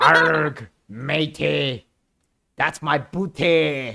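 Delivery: lightly voiced pirate, drawn out at the end; a hint of a playful pirate. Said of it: "Talk like a freaking pirate".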